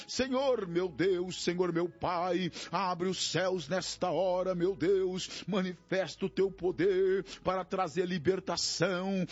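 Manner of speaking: impassioned, pleading prayer in rolling phrases; fervent prayer. Real, not acted. Pastor interceding with God for despairing, grieving, oppressed people, fervent prayer. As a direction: cry out to God, drawing out key words.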